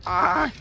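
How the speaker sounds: sudden high startled cry; startled yelp. Real, not acted. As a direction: yelp at the laser alarm. Triggers a laser in game.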